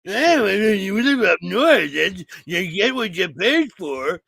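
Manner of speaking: mock Floridian reply. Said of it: "What, all Florida people the same to you?".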